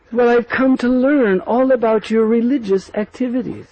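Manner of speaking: sly retort. Acted. Kutila confronting the gopis, sarcastic. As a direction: answer with pointed sarcasm.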